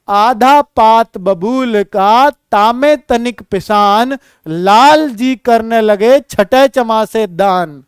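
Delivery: slow couplet recital, carefully paced; slow recitation. Shown as a demonstration. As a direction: recite it slowly for the class. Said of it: "बेटा देखना". (धीमा दोहा पाठ)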